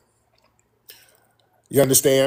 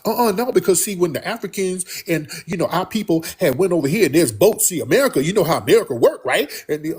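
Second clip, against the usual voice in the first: higher, hurried imitation of an evasive talker; mock babbling; 6 semitones higher, faster than usual. Host imitates an evasive caller explaining boats to America, mock babbling. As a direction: babble on over any interruption, mimicking. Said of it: "you babbling".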